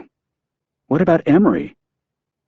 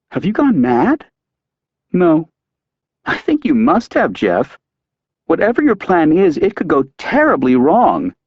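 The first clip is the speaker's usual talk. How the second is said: alarmed; 7 semitones higher than usual. Acted. Wife alarmed at husband's scheme.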